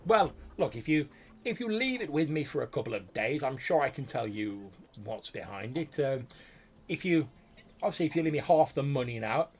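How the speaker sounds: a wizard haggling from on high; loud imperious voice. Acted. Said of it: "sort of loud, imperious voice say".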